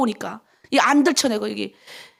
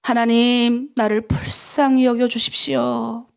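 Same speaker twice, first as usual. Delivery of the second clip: pleading prayer; 2 semitones lower, slower than usual. Shown as a demonstration. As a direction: lead the plea gently, 불쌍히 drawn out. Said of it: "우리 한번 따라해볼까요?".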